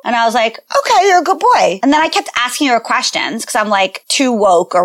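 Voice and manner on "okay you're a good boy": humouring parent. Retold or imitated. Parent humouring her child.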